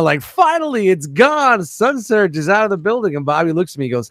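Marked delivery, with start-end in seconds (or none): 0.2-3.2 mild mock scream, starting high; celebratory cry that settles down; retold triumphant scream. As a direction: act out a relieved cheer without volume. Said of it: "I was screaming".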